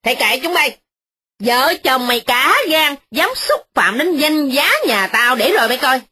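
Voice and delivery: put-on old lady threatening the kneeling servant; loud snap. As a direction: bark the threat down at him. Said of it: "Bà cai nạt lớn".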